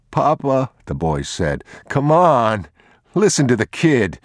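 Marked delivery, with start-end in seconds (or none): 0.1-0.7 put-on higher boy's voice; boy begging his papa; pleading boy. 1.9-4.2 high, loud, frantic pleading; a cornered thief begging the father; desperate thief. Acted. Thief seizes boy's plea.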